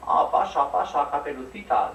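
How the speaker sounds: loud, slow wolf voice; a slow, sly wolf invitation; wolf faking mum. Acted. Wolf in bed lures Caperucita in, slow and loud. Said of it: "dijo el lobo".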